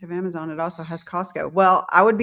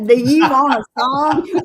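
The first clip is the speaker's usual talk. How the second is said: mock redneck drawl; 6 semitones higher, 9 dB louder, slower than usual. Mock redneck singing offer.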